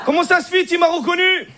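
put-on a surprised cousin in a thick Arab accent. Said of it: "l'accent arabe".

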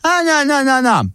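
high, outraged no no no; wife shoots him down; shocked refusal. Acted. Wife refusing husband's gifts, shocked and high.

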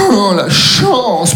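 slow, loud «Oh, la chance»; slow loud exclamation. Pretend. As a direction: stretch it out and call it loud. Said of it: "tu lâches un".

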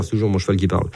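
ordinary talk, nothing marked

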